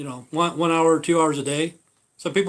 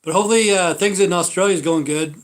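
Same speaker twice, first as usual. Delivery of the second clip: excited; 4 semitones higher, 6 dB louder than usual. Real, not acted. Greeting Australian viewers.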